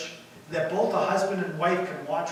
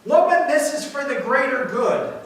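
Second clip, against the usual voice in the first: raised, louder retort; mock yell back; 6 semitones higher, 5 dB louder than usual. Superhero husband justifies himself to his wife, mock yelling. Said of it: "And he yells back".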